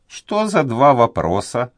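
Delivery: put-on a fretful old servant afraid to speak; timid old duenna. A narrator's reading. Old duenna hesitating before the young nobleman, high and anxious.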